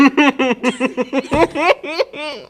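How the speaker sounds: loud helpless laughing fit; loud laughter. Real, not acted. Friend cracks up over the misread name.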